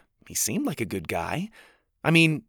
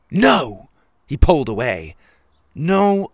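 loud, higher panicked no; loud refusal; 4 semitones higher, 8 dB louder than usual. Acted. Jack pulling away from Winnie, loud panicked refusal. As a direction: stop her hard before she reaches the door.

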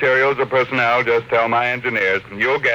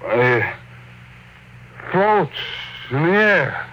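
higher, halting wonder; amazed; 5 semitones higher, slower than usual. Acted. Tycoon realising the metal floats, rising amazement. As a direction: marvel at it aloud.

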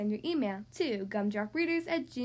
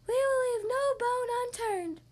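higher, perky spider; spider lady voice; 10 semitones higher than usual. Acted. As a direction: chirp the idea brightly. Spider vows help.

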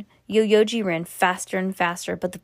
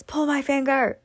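put-on little kid voice; 7 semitones higher than usual. Little brother.

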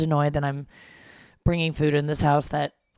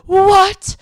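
much higher, louder delighted "What?"; excited surprise; 13 dB louder than usual. Retold or imitated. Mom hearing about the morels, shrieking with surprise. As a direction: squeal it like a kid on Christmas. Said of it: "she's like".

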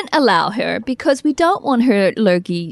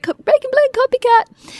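mocking label; 14 semitones higher than usual. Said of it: "It's like".

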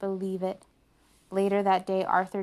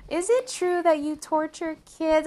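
bratty little sister; 10 semitones higher, 6 dB louder than usual. A narrator's reading. D W taunts the teacher.

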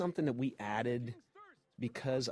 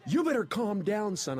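stern cop's order, raised and louder; mock police command, pitched up; imitated cop; 9 semitones higher, 4 dB louder than usual. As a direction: warn them like an officer. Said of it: "and he said".

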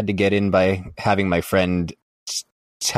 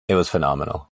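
deadpan; 2 semitones lower, faster than usual. Real, not acted. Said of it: "in the most deadpan milquetoast voice".

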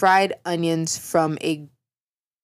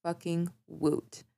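sarcastic cheer; 7 dB quieter, slower than usual. Acted.

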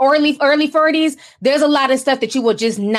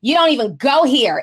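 put-on mean girl voice; 2 semitones higher than usual. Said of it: "in my mean girl voice".

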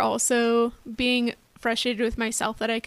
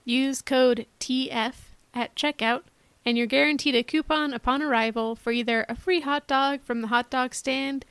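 ad read. Acted. Fake motel ad read.

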